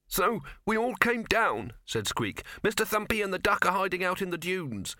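high, tiny mouse voice; squeaky mouse voice. Acted.

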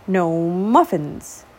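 very slow, drawn-out grumble. Acted. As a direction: drag it out, hungry and sulking. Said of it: "he grumbled".

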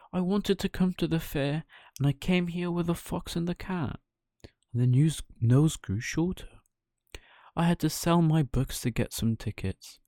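high, breathy, small confessing voice; sheepish puppet confession. Acted. Pinocchio admitting the truth to the fairy, high and breathy. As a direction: own up bit by bit.

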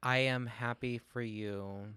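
hushed, slow and heartfelt. Real, not acted. Co-host whispers slow praise to her friend. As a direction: whisper it gently, slowly, to a friend.

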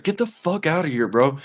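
high-pitched mock yell at the attacker; retold angry yell. Confronting the man grabbing the lady, high angry yell.

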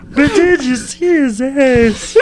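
put-on southern accent. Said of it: "You sound like a southern lesbian".

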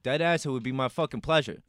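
tough Brooklyn accent, swearing. Shown as a demonstration. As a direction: Brooklyn wise guy accent. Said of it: "a Brooklyn accent".

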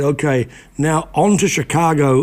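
imitating a Boston drawl; light Boston accent. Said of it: "in that Boston drawl that he had".

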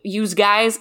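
"use guys" as youse, with a Z sound; "use guys", youse for plural you; regional "youse guys". Shown as a demonstration. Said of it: "I wouldn't say the New York accent".

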